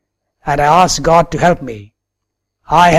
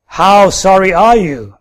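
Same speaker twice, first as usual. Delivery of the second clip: mock-sharp, higher and louder retort; 4 semitones higher, 4 dB louder than usual. Retold woman scornfully retorting to the apologizing man, sharp. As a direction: throw the question back at him, biting. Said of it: "she retorted".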